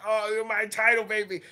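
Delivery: high, loud, lovestruck mock croon; Woods cooing at title. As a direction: croon to the title like it's your baby. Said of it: "He's going".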